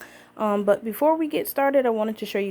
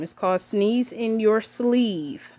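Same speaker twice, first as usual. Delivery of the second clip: slow and clear; slower than usual. Shown as a demonstration. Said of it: "Say it with me".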